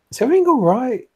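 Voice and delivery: high-pitched, concerned questioning; worried friend checking in, voice lifted; gentle concern. Acted. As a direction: probe gently, starting high and slowing down. Character checks on Emily with concern.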